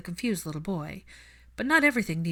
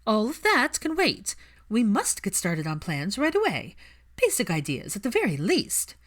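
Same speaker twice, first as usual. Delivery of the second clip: eager insistence; 3 semitones higher, 3 dB louder than usual. Acted. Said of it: "emboldened ... leaned forward with interest".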